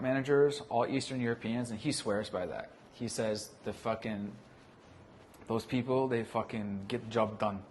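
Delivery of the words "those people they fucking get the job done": mock Russian accent, job with a zh sound. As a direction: imitate a Russian boss in a Russian accent. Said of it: "in my fucking Russian accent".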